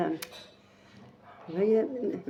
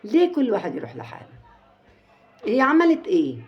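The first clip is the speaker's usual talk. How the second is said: higher, louder outrage; indignant; 5 semitones higher, 5 dB louder than usual. Real, not acted. Caller asks the host what the wife did wrong, indignant. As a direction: demand it in disbelief.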